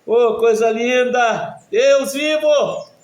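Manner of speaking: loud, high-pitched church exclamations; pregação fervorosa. Real, not acted. Preaching at full force. (pregação exaltada, em voz alta)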